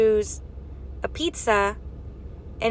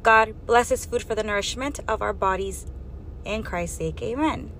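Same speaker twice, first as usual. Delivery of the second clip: a simple, earnest grace before eating; praying over a meal; sincere mealtime grace; 3 dB quieter than usual. Shown as a demonstration. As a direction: bless the food plainly and sincerely. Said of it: "This is how I pray for my food".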